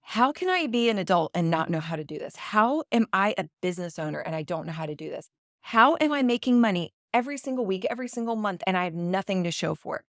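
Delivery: mildly exasperated self-questioning; rushed, rising self-blame; retold self-reproach. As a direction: replay berating yourself, pitch climbing midway. Retold self-berating while crying on floor.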